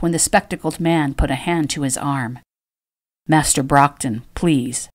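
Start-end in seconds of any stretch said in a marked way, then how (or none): 3.3-4.9 calm. Acted. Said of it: "said to him calmly".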